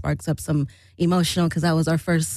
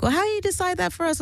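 high, fast indignant whine; mock indignant protest; 12 semitones higher, much faster than usual. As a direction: pitch it up like a miffed bandmate.

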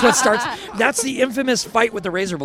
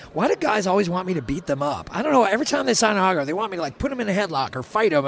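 higher-pitched mock grumbling; joking complaint; 4 semitones higher, faster than usual. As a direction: imitate a star playfully griping about fans. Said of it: "jokingly complaining about".

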